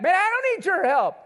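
mock brush-off. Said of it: "they fight back".

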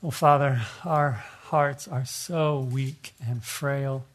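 slow, hushed pastoral prayer. Acted. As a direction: pray it slowly and humbly, like a pastor. Leads closing prayer.

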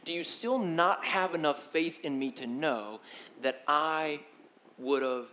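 soft, steady, gently reproachful; quiet reminder. Retold or imitated. Jesus gently reminding disciples of his miracles, quietly. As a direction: remind them quietly what they have seen. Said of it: "he's kind of pointing back".

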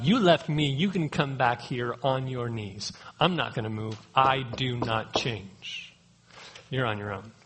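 a hint of a cold, unbending God turning away; stern unmoving God. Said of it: "was that a different version than you".

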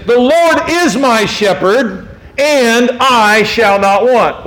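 "The Lord is my shepherd" read slowly and weightily; slow, solemn scripture reading; slow solemn quote. Acted. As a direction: let each word of the psalm land slowly. Quotes the psalm.

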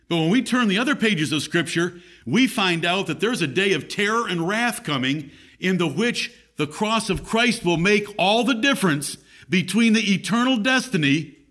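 emphatic preaching, pitch climbing. Real, not acted.

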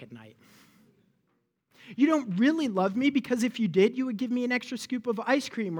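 put-on whiny kid. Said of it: "when you say to your parents".

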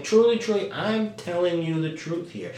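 TRULY, TRULY pitched high and insistent; earnest high emphasis on TRULY; emphatic. Acted. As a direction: press TRULY, TRULY, then ease down on TRUTH. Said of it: "putting emphasis on it".

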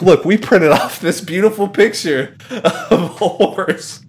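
proudly slow sell; mock salesman. Imitating QVC hosts showing a horse photo, mock slow pitch. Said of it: "they're like".

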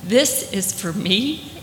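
put-on light African English accent, slow, disbelieving; a gentle hint of African English, slowly amazed. Catherine, handed her new car, in light African English accent. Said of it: "she said in her African English accent".

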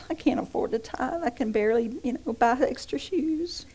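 lightly hammed-up self-pity; mock whine. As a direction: tease the petty complaint. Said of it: "mocking whiny churchgoer".

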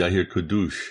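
garbled dropping call connection; breaking up. Real, not acted. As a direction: voice breaking up over the internet. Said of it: "Okay, you're breaking up".

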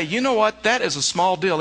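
mock objector. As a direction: voice the listener who waves it off. And you may say.

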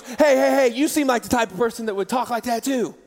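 trash talk. Retold or imitated. Kristen needles the priest at baptism, trash talk. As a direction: imitate a cocky trash talker, punching the heys. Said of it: "she's a trash talker".

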